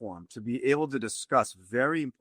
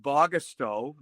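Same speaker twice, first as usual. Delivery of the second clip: Bogastow said in a Boston accent; slower than usual. Real, not acted. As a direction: say it like a Boston local. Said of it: "with my Boston accent".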